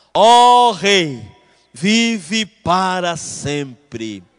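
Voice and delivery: booming, very slow, very loud, drawn-out shout. Speaker reading a Bible verse voices Daniel answering the king, Daniel shouting. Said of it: "Daniel deve ter gritado".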